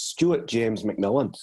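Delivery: full name slowly in a light Scottish accent. Shown as a demonstration. Guest shows host his surname on request, slow Scottish accent. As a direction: roll it off the tongue, Scottish and unhurried. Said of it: "Do the Scottish accent over your last name".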